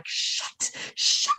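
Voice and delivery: whispered hush to the family behind; barely a breath, shushing; urgent whispered shush. Retold or imitated. Sister and mum in the back.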